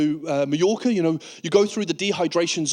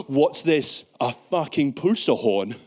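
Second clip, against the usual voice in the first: angry security officer; 4 semitones lower, slower than usual. Acted. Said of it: "now Bagheera is fucking angry".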